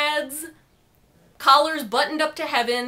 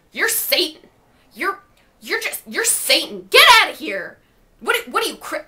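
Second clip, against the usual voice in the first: yelling; 4 semitones higher, 4 dB louder than usual. Retold or imitated. Guy shouting he's Satan.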